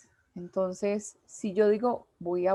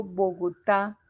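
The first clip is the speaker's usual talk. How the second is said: Bogotá with the force on the final TÁ; stress on last syllable; 3 semitones lower, slower than usual. Shown as a demonstration. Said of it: "pronunciamos con más intensidad es la".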